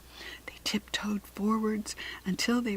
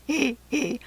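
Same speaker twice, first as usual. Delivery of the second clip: softer giggle; 4 semitones higher than usual. A narrator's reading. Jack Frost giggles on, softer, watching the chaos. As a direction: let the giggle drop back. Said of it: "beside himself with laughter".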